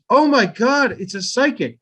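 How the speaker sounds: high, loud gasping oh my God; hammed-up amazement at a psychic trick; mock gasp. Audience member gasping at the fake psychic, high and loud.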